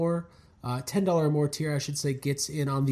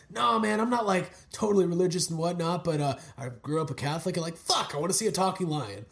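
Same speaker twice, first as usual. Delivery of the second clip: lightly voiced impression of a laid-back talker; Kevin Smith. Host tries out his new filmmaker impression, lightly voiced. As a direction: loose imitation, close to own voice. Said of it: "that's my new Kevin Smith impression".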